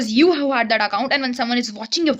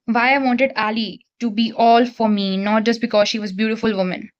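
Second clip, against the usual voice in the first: lower, even book-reading voice; reading aloud; 4 semitones lower than usual. Acted. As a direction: read the passage out evenly. Reads the novel aloud.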